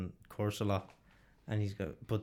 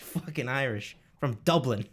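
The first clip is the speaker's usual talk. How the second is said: mock Boston Irish, louder on Dublin; Boston Irish accent; 4 dB louder than usual. Boston Irishman boasting about his roots, Boston Irish accent. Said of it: "the Boston Irish one's funny as well".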